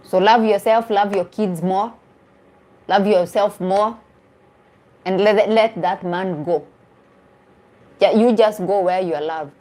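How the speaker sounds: ordinary talk, nothing marked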